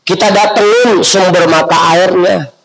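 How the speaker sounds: nada tinggi berapi-api; seruan dakwah. Acted. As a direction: serukan ajakan dengan nada lebih tinggi. (seruan dakwah bernada tinggi)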